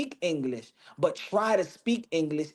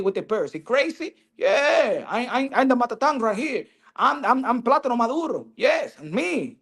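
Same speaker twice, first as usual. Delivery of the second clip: cocky Dominican fighter; 3 semitones higher than usual. Retold or imitated. Fighter calling out Gervonta, mock brash trash talk. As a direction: taunt the next opponent with street bravado. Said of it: "I need a Dominican to be like".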